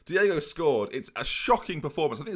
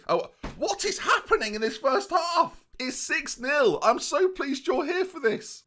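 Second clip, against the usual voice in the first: mock ecstatic commentary; 14 semitones higher, 3 dB louder, slower than usual.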